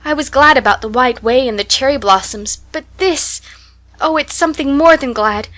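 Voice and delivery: put-on tearful happy child; excited joy. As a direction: spill over with happiness. Anne voiced, tearful joy.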